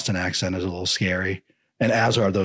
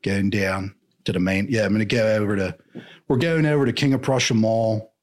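put-on Philly accent. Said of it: "slip into a Philly accent".

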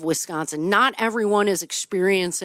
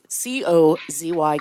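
slow spelled out; 3 semitones lower than usual. Shown as a demonstration.

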